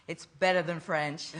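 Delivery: laughing through a joking jab; chuckling as you land the punchline; a real laugh breaking into the words. Real, not acted.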